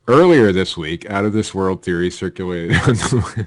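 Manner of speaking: half-hearted attempt at an Australian accent; badly faked Australian accent. Shown as a demonstration. Co-host asked for the story in an Australian accent, badly attempted Australian accent. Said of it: "My best Australian accent".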